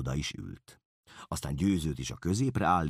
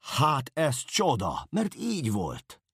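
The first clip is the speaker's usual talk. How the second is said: higher, louder and slow, crying out with delight; joyful exclamation; 10 semitones higher, 4 dB louder, slower than usual. A narrator's reading. Narrator delights in the class's answers, cries out joyfully. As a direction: call out the wonder gladly. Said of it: "örvendezve kiáltottam fel".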